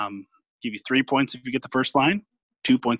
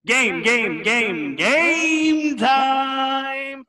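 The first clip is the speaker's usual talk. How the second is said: high, loud chant of game time; game show hype; 13 semitones higher, 3 dB louder, much slower than usual. Acted.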